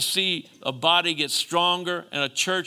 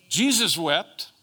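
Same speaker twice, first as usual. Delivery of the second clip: slow, drawn-out preacher's declaration; emphatic proclamation; 2 semitones higher, 4 dB louder, slower than usual. Real, not acted. Preacher proving to congregation that crying is okay, emphatic. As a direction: proclaim it firmly to the room. Proclaims it, then repeats it softer.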